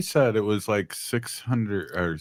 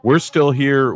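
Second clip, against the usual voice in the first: loud, much higher proud declaration; 7 semitones higher, 7 dB louder, slower than usual. Real, not acted. Host proudly declares to listeners, loud and high. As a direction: proclaim it to the crowd. Closing rally call to listeners.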